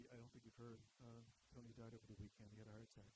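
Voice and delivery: soft, low and careful; gentle bad news. Coworkers telling Dick a colleague died, soft and careful. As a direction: break the death news gently.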